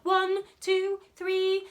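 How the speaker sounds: bright countdown to the buzz; counting in. Shown as a demonstration. Teller counting down for children, lively count. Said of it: "Buzz after three".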